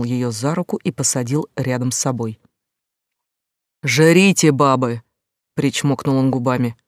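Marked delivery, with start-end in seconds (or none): 3.8-5.0 громкий пьяный рык; рявкни грубо, по-хамски; грубый окрик. Acted. Пьяный Митя орёт на девушек. (грубо и громко)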